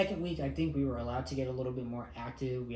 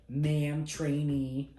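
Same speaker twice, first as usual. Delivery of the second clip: higher, louder imitated command; crisp instructor demo; 3 semitones higher, 5 dB louder, much slower than usual. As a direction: snap it out as an order. MTI demonstrating reporting statement.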